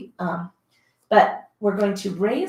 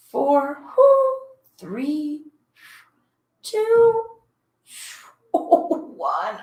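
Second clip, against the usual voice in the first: strained countdown; 7 semitones higher, much slower than usual. Real, not acted. Counting down hard reps.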